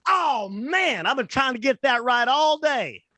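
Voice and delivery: put-on high, far-off goofy voice of a clueless young soldier; dopey recruit voice. Recruit to the comedian's wife, high and dopey. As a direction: play it like a cheerful kid who keeps mixing things up. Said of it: "And he goes".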